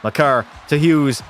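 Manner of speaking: hockey commentator calling the game; live play-by-play. Acted. Streamer calling the hockey game for chat, commentator style. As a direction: call the action for viewers.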